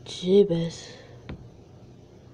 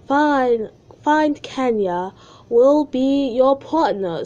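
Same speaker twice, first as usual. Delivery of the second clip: teacher voice; 6 semitones higher, 6 dB louder, slower than usual. Acted. Teacher character agrees.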